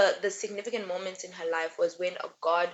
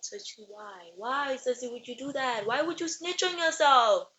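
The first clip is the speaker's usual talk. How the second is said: exasperated disbelief; 3 semitones higher than usual. Real, not acted. Fan asking Cersei why she snitched, baffled and exasperated. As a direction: plead with her, baffled.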